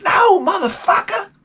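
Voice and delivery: high, shouted mock Black woman's accent. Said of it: "I lost my black woman accent".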